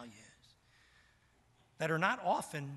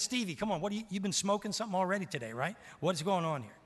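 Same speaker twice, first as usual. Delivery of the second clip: disbelief; 6 semitones higher, 3 dB louder, faster than usual. Retold or imitated. Disbelieving young self.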